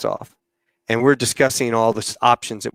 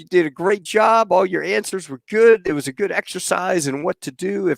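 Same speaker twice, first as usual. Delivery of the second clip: higher-pitched, approving retold welcome; congratulating; 6 semitones higher than usual. Captain welcoming the pranked new pilot, congratulating. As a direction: welcome him in with raised, encouraging pitch.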